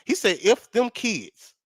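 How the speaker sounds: put-on slow it right down, landing on "kids"; "kids" drawn out as the key word; slow, pointed correction stressing "kids". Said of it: "on kids with an S on the".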